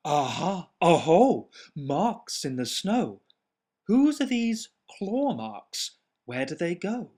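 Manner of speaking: put-on excited child monster. Gruffalo's child searching, calling out.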